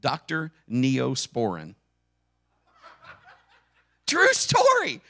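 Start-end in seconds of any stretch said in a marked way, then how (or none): 4.0-5.0 laughing. Real, not acted. Laughs at doctor's name.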